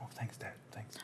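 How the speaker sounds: put-on mumbled whispered teen thanks; awkward teenager. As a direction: thank him like a shy teenager. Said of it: "I turned into, like, a fourteen-year-old".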